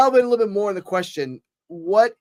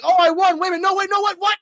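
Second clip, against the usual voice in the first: much higher, louder voice, win turning to disbelief; mock confused rival; 14 semitones higher, 5 dB louder, faster than usual. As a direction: play the rival realizing he lost. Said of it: "So he's like".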